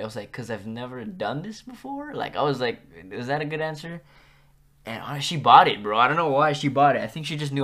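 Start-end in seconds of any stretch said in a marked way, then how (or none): 0.3-4.0 tentative answer lifted into a question; unsure, questioning. Retold or imitated. Student answering the strict teacher, unsure and questioning. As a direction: offer it hesitantly, as if asking. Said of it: "answered her in the form of ... not sure about it".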